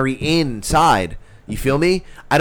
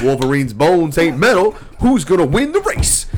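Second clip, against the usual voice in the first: pitched-up mock riddle, done right; mock nonsense riddle; 2 semitones higher than usual. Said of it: "Now you got it right".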